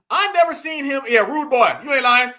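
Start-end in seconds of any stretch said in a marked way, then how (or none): 1.1-1.7 loud mock Jamaican accent; imitated Jamaican accent. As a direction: throw out a mocking Jamaican catchphrase, loudly. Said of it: "talking in a Jamaican accent again".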